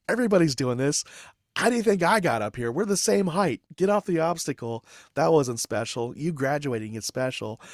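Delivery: loud, high-pitched imitation of a scolding sergeant; drill sergeant Abreu. Sergeant scolds trainee lingering atop the obstacle, imitated bellowing. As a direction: raise the voice in mock exasperated command. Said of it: "drill sergeant ... And he's like".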